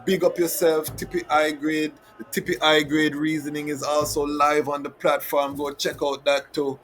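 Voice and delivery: high, loud hype announcer shout; excited hype. Real, not acted. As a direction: pump up the crowd. Hyping the audience, announcing.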